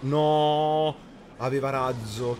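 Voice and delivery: sharp loud cry of dismay; loud shout. Real, not acted. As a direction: shout no at the screen. Opponent plays unexpected rocket.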